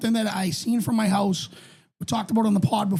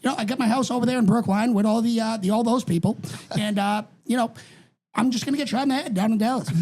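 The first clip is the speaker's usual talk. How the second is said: JFK impression. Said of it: "Have you heard my J F K?".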